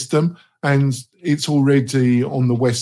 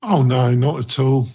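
mock denial, dryly sarcastic; English sarcasm; 3 dB louder than usual. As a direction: say it with tongue-in-cheek British irony. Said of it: "that was English sarcasm".

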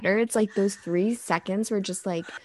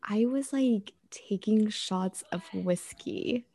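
whispered confession; 6 dB quieter, slower than usual. Real, not acted. Confessing whiskey shots.

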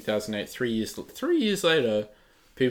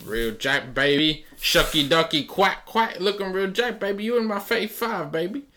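high, loud Booker T voice; Booker T impression; 8 semitones higher, 3 dB louder than usual. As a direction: hype it up like Booker T. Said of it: "That's my Booker T impression".

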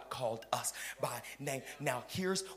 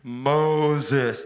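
God calling Moses; 14 dB louder than usual. Acted. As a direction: call the name from the bush. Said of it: "God called to him".

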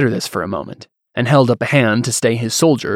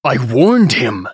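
frustrated; 4 dB louder, slower than usual. Acted. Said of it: "He gritted his teeth in frustration".

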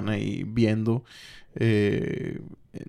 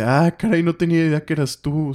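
higher, lifted mock surprise; surprised recognition; 5 semitones higher, 3 dB louder than usual. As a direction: act out a demon caught off guard. Demon recognizes her, surprised.

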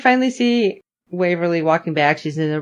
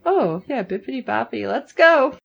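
lightly excited, lilting higher; perky mock enthusiasm, lifting at the end; eager reaction; 4 semitones higher than usual. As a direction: play up a breezy go-ahead. Acting out own eager reaction.

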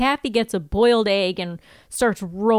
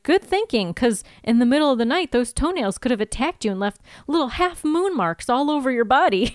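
higher-pitched mock approval, imitated; sarcastic; 3 semitones higher than usual. Willow humouring Buffy about the toenails, sarcastic. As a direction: retell it with put-on sarcasm. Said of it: "sarcastically, she's like".

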